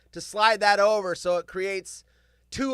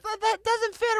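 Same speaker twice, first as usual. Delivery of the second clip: much higher, squeaky mother voice; mock worried mother; 14 semitones higher than usual. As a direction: imitate mom fussing over the cuffs. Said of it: "my mother's like".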